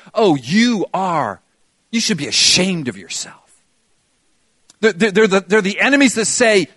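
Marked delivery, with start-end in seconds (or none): 0.1-3.4 accusing enemy. Retold or imitated. Preacher voices the spiritual enemy to the congregation, lightly sneering. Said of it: "enemies that come in and say".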